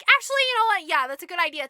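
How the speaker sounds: queen suddenly taken with the idea; scheming queen. Acted. Queen changes her mind.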